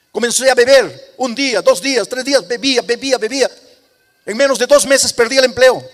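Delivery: a broken man's testimony building to a loud cry; impassioned testimony. Retold or imitated. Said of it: "Me dijo".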